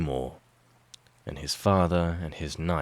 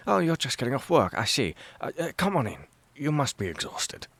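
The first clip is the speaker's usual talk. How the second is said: higher-pitched, eager, friendly chatter; excited welcome; 7 semitones higher than usual. A narrator's reading. Henry invites Mike in after work, excited welcome.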